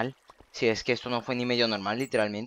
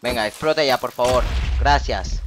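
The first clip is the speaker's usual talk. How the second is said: loud pleading; 8 dB louder than usual. Real, not acted. Urging creeper to explode.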